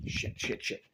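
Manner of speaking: hushed, breathy "shit, shit, shit" under the breath; whispered curse. Real, not acted. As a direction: curse to yourself so nobody hears. Not ready, quick curse.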